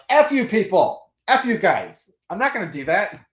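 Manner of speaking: hammed-up outrage at the comic company, high and loud; mock furious yell. Telling off the comic company, mock furious high yell.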